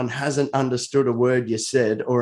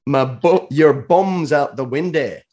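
slow, deliberate would-be Scottish; attempted Scottish accent; 3 dB louder, slower than usual. Shown as a demonstration. Host repeats the saying for the puzzled Scot, attempted Scottish accent. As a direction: spell out the saying in a shaky-quality Scottish accent. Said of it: "I am as good at, uh, Scottish".

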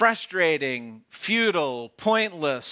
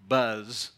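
low buzz like bees; buzzing sound word; 6 semitones lower than usual. Shown as a demonstration. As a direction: hum it like a bee. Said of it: "Let me give you an example".

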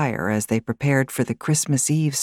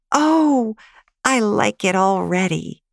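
put-on high, bright child voice, thrilled; a small girl won over at once; delighted little girl; 7 semitones higher than usual. Girl delighted by story opening.

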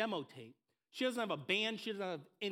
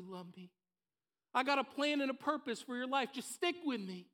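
lightly voiced God, raised and reassuring; God's voice; 4 semitones higher than usual. God reassuring Mariah at her fork in the road, lightly voiced. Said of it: "hear God's voice saying".

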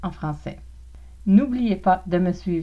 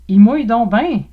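mock weather moan; 4 semitones higher, 10 dB louder than usual. Example weather remark, Québec slang.

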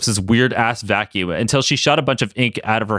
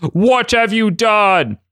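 dismayed villain; 9 semitones higher, 3 dB louder, much slower than usual. Acted. Apocalypse after the explosion.

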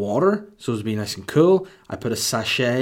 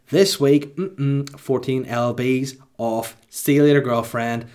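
excited boast; 3 semitones higher, 5 dB louder, slower than usual. Real, not acted. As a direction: crow about the win. Boasting about weight loss.

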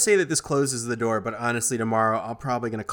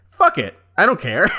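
exasperated director; 6 semitones higher, 5 dB louder than usual. Retold or imitated. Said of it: "Sam Raimi was like".

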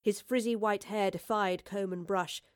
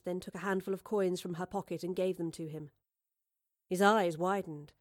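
ordinary delivery

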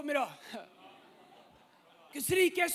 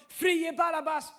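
retold crowd shout; slower than usual. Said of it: "Och så ropar de".

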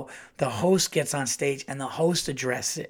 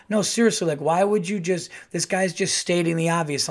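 roasting; 4 semitones higher, 3 dB louder than usual. Retold or imitated. Roasting heckler onstage.

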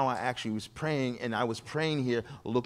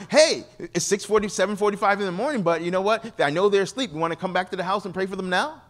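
higher, louder and quick, eager neighbor; eager invitation; 5 semitones higher, 3 dB louder than usual. Retold or imitated. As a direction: rush the invitation out brightly. Neighbor eagerly invites him home.

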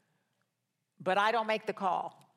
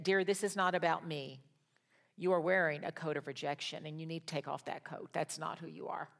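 retold gentle words, trailing softer at the end; 3 semitones lower, 4 dB quieter than usual. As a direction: ease into a tender, quiet correction. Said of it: "in a very soft and gentle voice".

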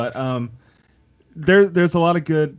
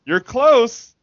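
hammed-up reply; 9 semitones higher, 6 dB louder than usual. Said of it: "And he goes".

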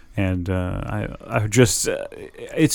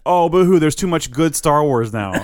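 mock whining; 4 semitones higher than usual. Mocking fans who moan about too much good Star Wars, mock whining. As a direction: put on a sarcastic boo-hoo.

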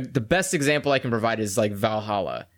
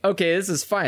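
high voice; 6 semitones higher than usual. Shown as a demonstration. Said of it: "a really high pitched voice".

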